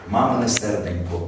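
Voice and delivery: slow "Мамине серденько", each sound finished; every sound articulated. Shown as a demonstration. Coach models the story phrase, "Мамине серденько" slowly and fully articulated. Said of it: "кожен звук до кінця вимовляти".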